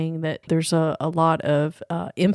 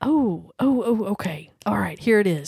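whispering. Real, not acted. Whispering while thinking of an idea.

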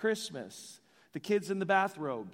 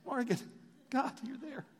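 Morgan Freeman voice; 6 semitones higher, 4 dB quieter than usual. Pretend. Pastor imagines God speaking to him, a light Morgan Freeman tone. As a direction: lightly voice God as a calm film narrator, barely above a murmur. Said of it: "in a Morgan Freeman voice".

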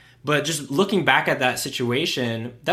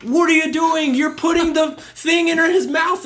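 higher, louder, jumping on him; mock accusing outburst; 13 semitones higher, 5 dB louder than usual. Staff member jumping on the doctor, mock accusing. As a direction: snap at the doctor, voice shooting up. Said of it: "jumping on the doctor and saying".

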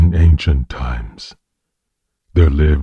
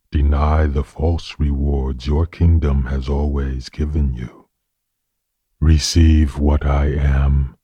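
gentle and simple. Acted. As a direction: offer each word like a blessing. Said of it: "gently and simply whispered in his ear".

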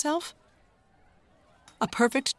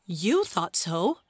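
puzzled; 2 semitones lower, slower than usual. Acted.

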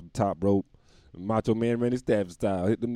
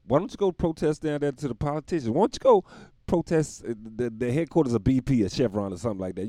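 louder, higher rising rant at protesters; ranting, building up; 5 semitones higher, 4 dB louder than usual. Real, not acted. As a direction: build the outrage to a yell.

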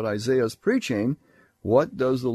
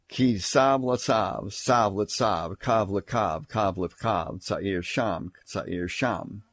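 slow, rhythmic Hebrew jingle; babble-like recitation; slower than usual. Shown as a demonstration. Preacher showing how verse ten reads in Hebrew, babble-like recitation. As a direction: recite it in measured, repetitive little units. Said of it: "it sounds like gibberish of a baby".

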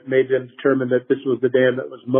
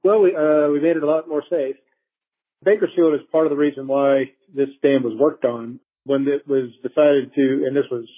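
bad phone line. Real, not acted. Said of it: "We did speak by phone".

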